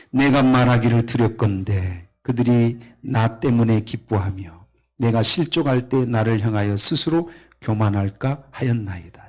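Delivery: loud, solemn reading of the psalm verses; scripture reading. Acted. Pastor reading the psalm to the congregation, loud solemn proclamation.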